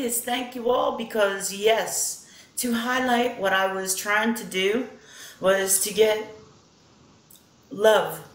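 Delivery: put-on a light Australian accent, unhurried and heartfelt; lightly mimicked Australian lilt; channelled Australian accent. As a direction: speak as Steve through her, mildly Australian. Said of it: "if my Australian accent is off".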